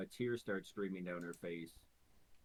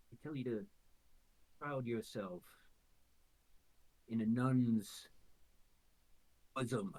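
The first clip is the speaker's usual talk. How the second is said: sinister creature; 3 semitones higher than usual. Acted. Quasit stoking her rage.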